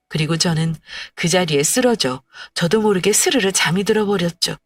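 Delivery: usual speaking voice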